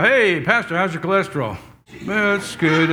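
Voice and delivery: put-on lightly caricatured old folks' chat; mock old-timer conversation; old people talking. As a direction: imitate elderly small talk about health. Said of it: "Old people talk like that".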